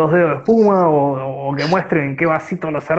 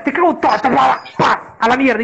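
tough cockroach voice; 6 semitones higher than usual. Acted. Voicing the boxing cockroach.

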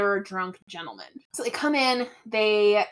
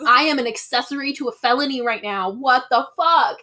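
freaking out; 3 semitones higher, 4 dB louder than usual. Retold or imitated. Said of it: "Veronica's freaking out".

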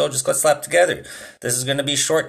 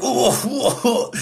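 imitating coughing groans; 10 semitones higher than usual. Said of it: "he's like".

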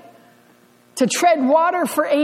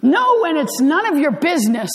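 snappy no; 3 semitones higher than usual. Shown as a demonstration. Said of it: "different kinds of no".

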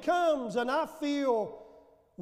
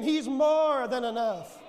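call and response. Shown as a demonstration. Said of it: "Say it again".

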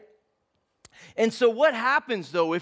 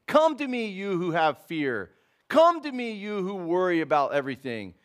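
gentle preaching; 2 semitones lower than usual. Acted. Preaching Jesus' invitation.

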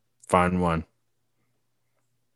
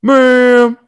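stern staff voice; 12 semitones higher, 8 dB louder than usual. Retold or imitated. Imitating staff.

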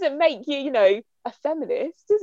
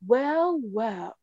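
lightly imitated posh Downton Abbey accent; a hint of Downton Abbey, first word raised, second dropping away; 4 dB quieter than usual. Co-host imitating an actress as Maleficent, mock Downton Abbey accent. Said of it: "she was very Downton Abbey".

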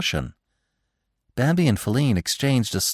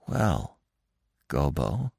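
trembling voice; 7 semitones lower, 7 dB quieter, much slower than usual. A narrator's reading. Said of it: "His voice trembled".

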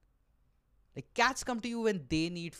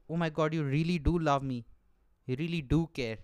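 touched cat owner; 3 dB louder than usual. Retold or imitated.

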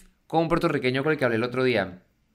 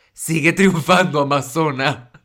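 mock cheer; 7 dB louder, slower than usual. Real, not acted. Cheering the miss ironically.

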